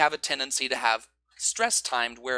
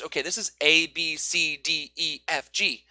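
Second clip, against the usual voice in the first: A, B, C said evenly; even beats. Shown as a demonstration. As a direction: give each letter an equal beat.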